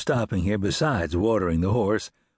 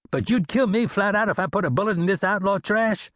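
amazed; 11 semitones higher than usual. A narrator's reading. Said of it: "Dinsmore said in amazement".

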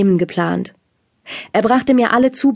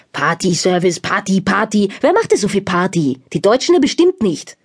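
mock grumbling father. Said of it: "brummte mein Vater".

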